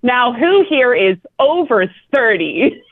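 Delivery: slow, dead-serious question; completely serious. Retold or imitated. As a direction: ask it totally straight-faced. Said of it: "completely serious".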